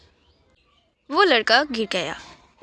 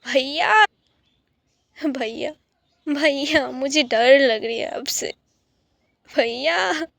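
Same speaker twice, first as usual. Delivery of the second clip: a mild frightened call, brother; calling out loudly; slower than usual. Acted. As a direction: call him back, a bit scared. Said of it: "Daisy जोर से बोली".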